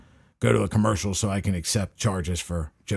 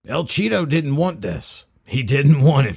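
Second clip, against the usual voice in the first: Trump impression; 6 semitones higher, 6 dB louder, slower than usual. Mock Trump rally voice.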